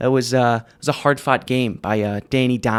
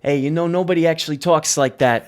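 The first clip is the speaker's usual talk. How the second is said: retold New York accent; 3 semitones higher than usual. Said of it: "the exact same tone and inflection".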